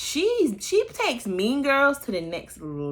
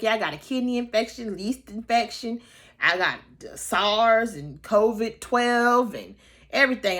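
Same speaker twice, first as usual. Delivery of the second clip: exaggerated LaToya complaint; 4 semitones higher, 4 dB louder than usual. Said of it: "She was like".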